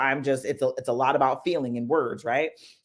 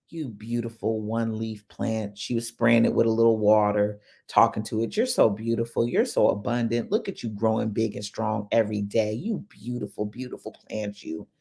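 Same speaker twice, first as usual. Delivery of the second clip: tender coaxing; 5 semitones lower than usual. Retold or imitated. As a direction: gently sweet-talk the last leaf back. Coaxing the dying plant.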